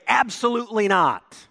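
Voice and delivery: loud, high "Absolutely not"; emphatic denial. Shown as a demonstration. Preacher restating Paul's reply to the congregation, loud and emphatic. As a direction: hammer "absolutely" hard and high. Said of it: "Let me put that another way".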